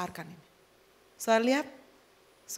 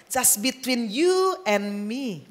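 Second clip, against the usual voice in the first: slow, drawn-out sweet talk; mock-romantic croon; romantic intimacy; much slower than usual. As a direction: stretch it out like a lover. Acting out courting couple's intimacy.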